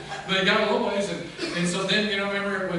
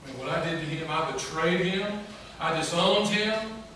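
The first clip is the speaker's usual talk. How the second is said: anguished self-reproach; 4 dB louder than usual. Acted. Peter owning up to betraying Jesus, building self-reproach. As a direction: build to the last admission. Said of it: "how he betrayed Jesus and disowned".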